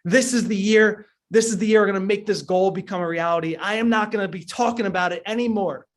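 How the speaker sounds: channel the speaker's roaring finale, imitated; mock motivational scream. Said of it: "just screaming over and over again".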